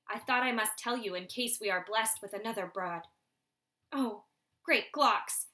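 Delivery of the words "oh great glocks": shocked gasp. Acted. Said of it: "his mother gasped".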